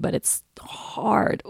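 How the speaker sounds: breathless admission. Real, not acted. Admitting parenting is hard.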